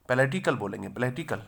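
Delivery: पैलेटिकल with stress on second syllable "le". Shown as a demonstration. Teacher explains the stress mark, stressing ले in पैलेटिकल. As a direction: lean on ले in पैलेटिकल, not पे. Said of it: "ले पे जोर देंगे".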